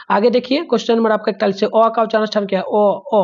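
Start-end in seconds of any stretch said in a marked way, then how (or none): 2.6-3.2 teacher showing the students how ओ sounds; demonstrating the sound ओ. Shown as a demonstration. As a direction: say ओ twice, round and open. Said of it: "ओ बोल के देखिए".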